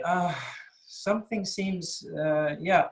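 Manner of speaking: hesitant, tentative and slow; polite hesitation. Shown as a demonstration. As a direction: soften it, trail off politely. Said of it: "I would make it a bit more polite".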